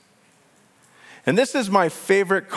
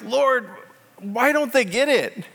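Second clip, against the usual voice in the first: high, exasperated cry to the Lord; imitating his own frustrated prayer; frustrated plea; 8 semitones higher than usual. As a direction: throw the frustration up at heaven. Frustrated prayer about others.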